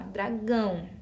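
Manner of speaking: "dragão" with nasal final -ão; nasal ending. Shown as a demonstration. Teacher points to the end of the word, "dragão" with nasal ão. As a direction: say "dragão" as dra-GÃO. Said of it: "esse som nasal".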